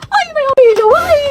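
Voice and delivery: tag. Acted. Startled squeals during class introductions.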